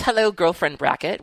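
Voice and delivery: put-on a light Scottish accent on "Hello, girlfriend bracket."; lightly voiced Scottish greeting. Host reading a listener's letter, light Scottish accent. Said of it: "Why did I start off being Scottish?".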